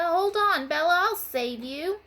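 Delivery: high urgent call. A narrator's reading. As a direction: call out as you rush in. Girl rushing to save frog.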